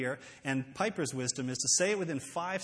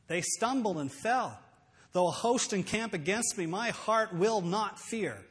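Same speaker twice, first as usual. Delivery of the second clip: resolute psalm recital; 2 semitones higher than usual. Shown as a demonstration. Saying no to worry by quoting a psalm, resolute. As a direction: declare the verses with growing conviction.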